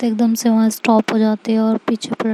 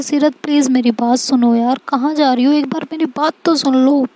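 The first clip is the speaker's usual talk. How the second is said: pleading; 3 semitones higher than usual. Acted. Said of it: "उसे रोकने की कोशिश करती है".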